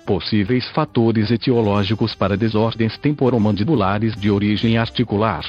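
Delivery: robotic synthesized text-to-speech voice. Real, not acted. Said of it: "falo através desta voz sintetizada". (voz sintetizada de computador antiga)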